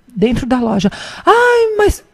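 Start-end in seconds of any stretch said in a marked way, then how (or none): 1.2-2.0 high, stretched mock lament; loud complaining mother. Mother of the other boy inside the shop, loud mock lament. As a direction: imitate a mother carrying on loudly. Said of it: "bem alto".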